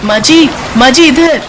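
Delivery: loud call across the rain. Acted. Daughter-in-law calls out to her mother-in-law in rain, loud call. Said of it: "को आवाज लगाती है".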